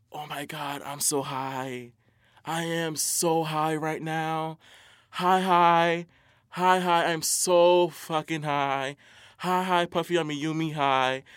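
slow, dreamy imitation of a stoner; mock stoned bragging. Mocking a stoner who posts every puff, slow and dreamy.

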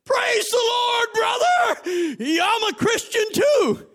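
high, loud hammed-up shout; mock the cussing man's cheerful praise; rough man's reply. Preacher imitating a rough man, loud and high. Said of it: "You know what he said?".

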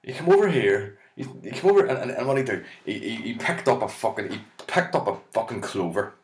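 high, loud outraged Saint Bridget; indignant rant. Retold or imitated. Saint Bridget fuming at Patrick in heaven, high loud outraged rant. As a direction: splutter with jealous outrage. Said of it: "She'd be sitting there going".

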